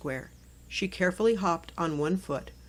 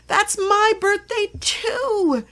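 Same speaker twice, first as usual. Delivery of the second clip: much higher and louder, slow, delighted burst; forgot to whisper; 13 semitones higher, 9 dB louder, much slower than usual. A narrator's reading. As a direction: blurt it out loud in class. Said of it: "She forgot to whisper".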